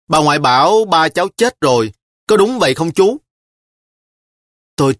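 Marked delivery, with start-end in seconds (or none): 0.1-3.2 lightly voiced little girl, asking anxiously; a small girl pleading for the truth; a hint of a child's worried question. A narrator's reading. Child asks about dead father.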